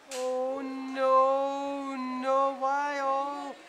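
panicked grandmother yelling at her grandson to run. Retold or imitated. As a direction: shriek like a terrified grandma urging you to flee.

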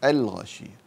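الغاشية with the l sounded distinctly; clear lam. Shown as a demonstration. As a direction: say al-ghashiya, a crisp lam in الغاشية. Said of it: "فهذه تظهر".

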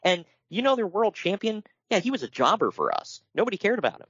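lightly acted gloating; mock boasting. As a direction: crow like a company gloating over rivals. Acts out rival company's boast.

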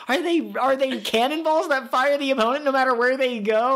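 excited Chopper. Retold or imitated. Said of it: "being like".

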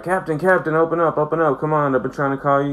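begging someone to open up; urgent pleading at the door. Retold or imitated. Wesley pounding on Picard's door, urgent pleading.

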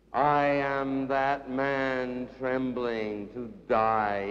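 solemn poetic litany; incantatory poetry reading. Acted. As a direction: intone solemnly, sinking as it goes. Poem recital continues.

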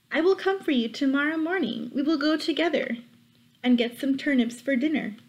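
fake-friendly like a scheming wolf. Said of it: "said the wolf".

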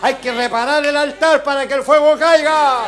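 loud, rising preacher's call; fervent pulpit preaching; preaching at full force. Real, not acted. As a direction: drive it home to the congregation.

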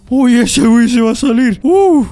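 high, startled gamer yelp; alarmed excitement. Real, not acted. Player seeing his victim about to escape, alarmed. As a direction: blurt it high as if caught out.

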